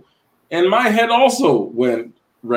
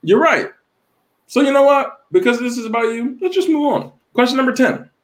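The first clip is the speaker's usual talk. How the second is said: mock sarcasm; 10 semitones higher than usual. Sarcastic mock agreement after jab.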